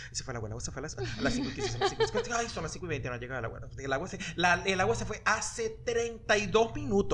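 imitating a fretful mother; a light take on an anxious mom, with a laugh; man doing a woman's voice. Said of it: "empieza a imitar a mi mamá".

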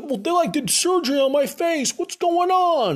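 high, loud comic panic; hammed-up, frantic protest; mock freak-out. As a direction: imitate a man wailing about his face. Hero freaks out about face.

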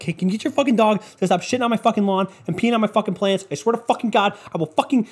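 annoyed neighbor ranting about a dog; mock angry neighbor. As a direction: act out the fed-up neighbor losing it. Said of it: "be like".

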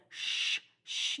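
soft, urgent "shh"; hushing. Retold or imitated. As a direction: imitate shushing a drunk friend, very quietly. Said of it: "Spencer hushes her".

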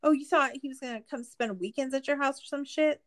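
high-pitched incredulous questioning; exasperated disbelief. Real, not acted. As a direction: pitch up in disbelief at how dumb the plan was. Exasperated rant about Gypsy's plan.

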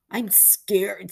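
a frightened boy's mock wail; hammed-up scared wail. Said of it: "frankly wailing".

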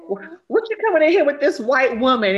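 a hint of a scolding mother at a barbecue; playful impression of an outraged mom; imitating Jennifer Lewis. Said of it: "she was like".

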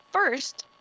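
ordinary talk, nothing marked

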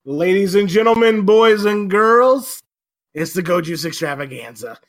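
big announcer opener; booming kids show opener. Acted.

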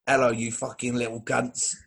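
lightly put-on influencer impression; George Osborne. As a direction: greet them as a foul-mouthed influencer, lightly imitated. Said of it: "Uh, George Osborne".

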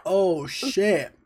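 pained by hot pepper; mouth burning from spicy food. Real, not acted. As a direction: speak through a burning mouth. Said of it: "my whole fucking mouth".

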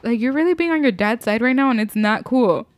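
loud enough for the next room; through a vent. Real, not acted. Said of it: "Me saying it out loud so Juan can hear me".

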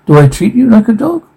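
high, fast indignant question. Acted. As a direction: fire it back, offended.

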